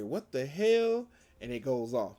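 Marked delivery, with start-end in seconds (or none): 0.0-1.1 shocked crowd. Retold or imitated. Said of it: "everybody's like".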